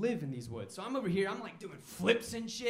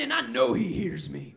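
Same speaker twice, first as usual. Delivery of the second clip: a lightly voiced gruff redneck, louder as he rants; redneck neighbor; 6 dB louder than usual. Comic introduces his neighbor, mild redneck rant. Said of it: "Here's the neighbor".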